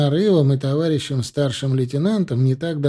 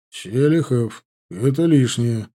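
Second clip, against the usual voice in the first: ordinary delivery, nothing marked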